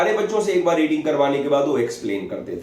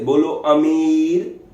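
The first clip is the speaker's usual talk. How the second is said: slow, firm teacher prompt; drawn-out classroom drill, lightly voiced; teacher spelling out a name for a slow pupil; 3 semitones higher, 4 dB louder, much slower than usual. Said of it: "तो उसको ऐसे बताते थे".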